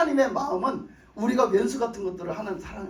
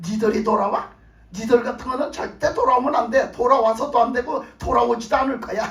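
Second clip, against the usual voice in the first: mock Jonah scolding; 4 dB louder than usual. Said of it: "이러고 쳐다보는 거야".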